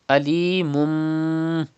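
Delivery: Alimum with the tanween turned to a nasal mim; iqlab with ghunna. Shown as a demonstration. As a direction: hum the mim slowly in Alimum. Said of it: "iqlab will be done here".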